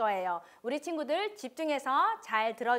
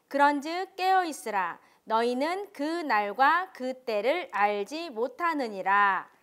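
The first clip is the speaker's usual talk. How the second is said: scripture reading; 3 dB louder than usual. Acted. Reads scripture aloud to children. (천천히 또박또박 성경 낭독)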